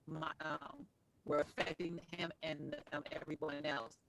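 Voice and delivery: breaking-up call audio; choppy dropping connection; glitchy robotic call. Real, not acted. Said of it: "your connection is breaking up a little bit".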